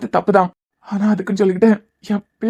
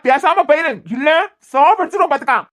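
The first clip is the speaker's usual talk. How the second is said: angry threat; 5 semitones higher than usual. Acted. Furious threat in hospital quarrel.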